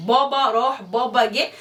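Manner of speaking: put-on slow, babyish little girl calling for her dad; a toddler toddling after her father, sing-song and slow. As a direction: mimic the little one saying baba, slowly. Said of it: "بتقول له يا بابا".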